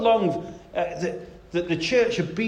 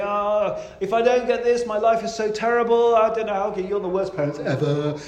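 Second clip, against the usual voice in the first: mock tantrum, pitch a bit raised; lightly hammed-up child's protest at parents; bawling child imitation; 3 semitones higher than usual. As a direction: imitate a child wailing in melodramatic complaint. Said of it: "they're shouting and they're bawling and saying".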